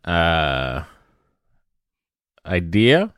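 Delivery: words stretched through a yawn. Real, not acted. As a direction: talk while yawning, slow. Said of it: "I apologize for the yawn".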